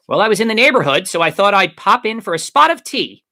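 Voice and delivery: high, loud, hammed-up English accent; fast, exaggerated English society accent; would-be English accent. A narrator's reading. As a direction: put on a jaunty mock-English accent. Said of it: "in his best English accent".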